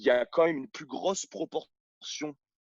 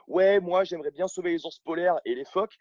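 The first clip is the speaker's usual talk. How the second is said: mocking imitation; 3 semitones higher, 3 dB louder than usual. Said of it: "Les gens parlent de pollution".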